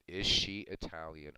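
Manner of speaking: slow, pointed is she Italian; mock grandparent question. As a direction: ask it slowly like a nosy grandparent. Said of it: "Grandparents always ask that of their grandkids".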